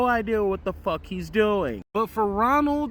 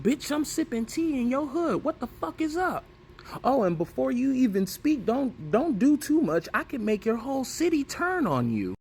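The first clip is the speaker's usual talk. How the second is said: higher, smug rival taunting; cocky taunt; 6 semitones higher than usual. Retold or imitated. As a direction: needle him from above, all swagger. BK taunting Ronald in his hood.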